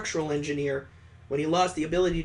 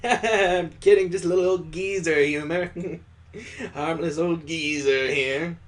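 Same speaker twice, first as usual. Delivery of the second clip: laughing it off. Acted. Father laughs off creepy joke.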